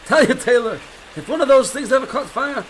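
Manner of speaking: chuckling through the joke; laughing. Acted. Airfield worker jokes to the aviator about the Zeppelin, laughing. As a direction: laugh as you tell it. Joking about hydrogen fire.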